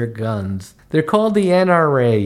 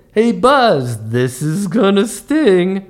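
higher, drawn-out mimicry of fans; imitating fans quoting catchphrase; 5 semitones higher, 3 dB louder, slower than usual. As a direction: parrot the catchphrase like a fan. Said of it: "people would say".

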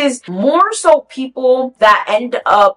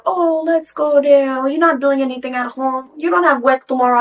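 imitating coaxing man; 4 semitones higher than usual. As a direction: coax like a pushy date, mockingly. Imitating his coaxing to visit.

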